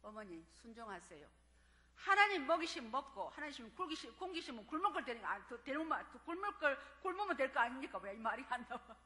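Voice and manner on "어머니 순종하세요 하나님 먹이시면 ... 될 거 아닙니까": quoting daughter. Retold or imitated. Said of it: "지금 목사 된 딸이 뭐라는 줄 알아요?".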